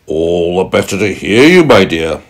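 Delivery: lightly voiced wolf, swell up on HEAR YOU; a hint of a crafty wolf; wolf as Granny. Wolf posing as Granny to the girl, lightly acted voice.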